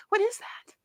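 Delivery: sudden puzzled high question; surprised. Real, not acted. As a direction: pitch jumps way up on what.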